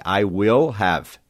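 I will have, each word slow and full; slow full form. Shown as a demonstration. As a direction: spell out I will have without contracting. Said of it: "I will contraído para I'll". (forma completa e lenta: I will have)

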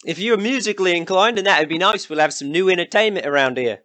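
high, brash country villager; rough villager. Acted. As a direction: greet travellers as a nosy local. Villager Ian introduces himself.

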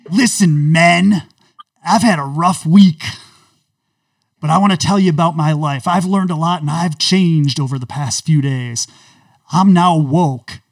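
loud coach addressing his team; booming locker-room speech; woke Jon Gruden. Acted. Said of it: "special character woke John Gruden".

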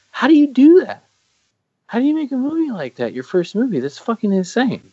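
very high-pitched disbelief; squeaky, awestruck rush of questions; incredulous amazement. Acted. Film fan marvelling at a first movie, high-pitched disbelief.

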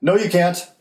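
high-pitched mock child's retort; defiant retold holler; imitated yelling back. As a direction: yell back stubbornly, in play. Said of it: "And she yells back".

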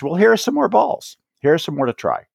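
encouraging teacher. Retold or imitated. Voicing a teacher handing balls.

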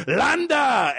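high, drawn-out call; mock calling out. Podcaster mimicking the officer's name being called, high and stretched. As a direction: hail him across the room.

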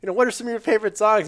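excited. Retold or imitated. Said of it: "going up to him and saying".

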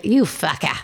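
a lightly Irish "You fucker", level in pitch and level; mock Irish. Friend imitating Irish swearing, with a hint of an Irish accent. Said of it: "And they".

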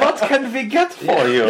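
slow, high German shopkeeper welcome; laughing, hammed-up German greeting; friendly German. GM plays a good-guy German shop owner, slow high voice.

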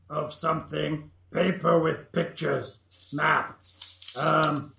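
lightly voiced goblin, broken speech; a hint of a simple goblin. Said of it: "That should make easier goblin voices".

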